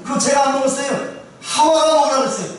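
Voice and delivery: mock innocent excuse; acted blame-shifting. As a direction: pass the blame on, lightly acted. Adam shifts blame to Eve.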